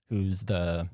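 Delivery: winded, catching breath; short of breath mid-sentence. Real, not acted. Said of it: "sorry, I'm out of breath again".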